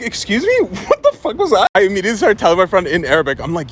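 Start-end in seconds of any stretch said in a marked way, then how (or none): 0.0-1.7 mock outrage at something bizarre; retold shocked reaction; indignant disbelief. Startled reaction to stranger's shaking.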